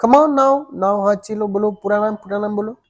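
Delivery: gently urging teacher, coaxing her on; teacher coaxing a shy girl to say her full name; encouraging. Acted. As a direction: coax the child to finish her name. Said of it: "The teacher encouraged her".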